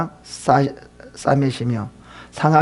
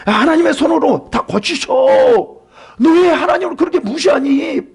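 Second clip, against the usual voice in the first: much higher exasperated rebuke; scolding friend; 11 semitones higher than usual. Acted. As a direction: scold him like a nagging friend. Eliphaz scolding Job.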